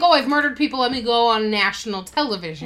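mock murderer voice. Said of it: "But who would think".

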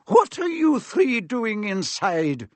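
a lightly voiced strict professor; stern teacher. A narrator's reading. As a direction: stop the pupils with a slow stern question. McGonagall calls across hall.

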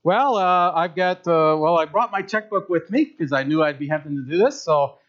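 lightly voiced eager buyer in a skit; preacher acting out an eager buyer at a title office; acted skit buyer. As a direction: play the excited buyer, a touch hammed.

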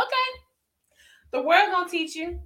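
mimicking mama. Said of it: "She was like".

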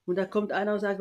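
ordinary talk

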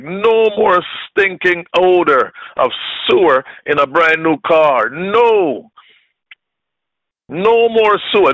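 defiant, rising refusals; fed-up believer declaring he's done; retold angry vow. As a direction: throw out each no like a fist. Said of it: "I was angry".

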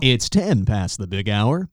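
a hint of a morning radio DJ. Co-host mocks her wake-up, light radio DJ voice. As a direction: lightly play the radio jock. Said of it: "That's how you say good morning to me".

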